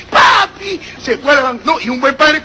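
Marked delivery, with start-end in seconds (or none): 0.1-0.8 put-on high little-kid call; excited child. Child hanging off daddy's neck, excited high call. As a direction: cry out for daddy, pitched up.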